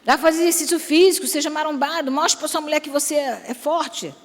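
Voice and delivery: a pretend wife answering the preacher back, half teasing; protesting wife. Preacher voices a skinny wife answering back, mock protest. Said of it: "Aí você fala assim".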